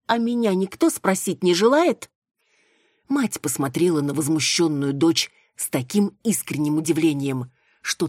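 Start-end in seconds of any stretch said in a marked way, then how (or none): 0.1-2.1 high, loud outraged question; indignant protest. A narrator's reading. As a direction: demand to be asked, indignant. (возмущённо, громко и высоко)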